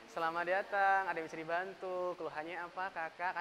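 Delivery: bright, polite call-centre welcome; cheerful customer service voice answering the phone; customer service greeting. Shown as a demonstration. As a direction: greet a caller like a helpful agent. Teacher acting a customer service agent.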